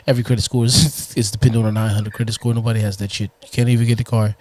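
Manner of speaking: low, fast hard sell; car salesman voice. Acted. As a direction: pitch the deal like a dealer. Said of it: "car salesman voice".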